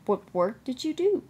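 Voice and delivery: gently interested, lifted pitch; kindly. A narrator's reading. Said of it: "asked Edward kindly".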